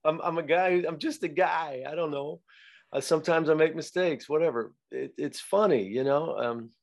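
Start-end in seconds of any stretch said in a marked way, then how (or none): 0.0-4.7 high, amused shrug at his own mistakes; chuckling self-mockery. Actor shrugging off a bad scene, high and amused. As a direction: laugh it off, playfully self-deprecating. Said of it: "chuckle about that".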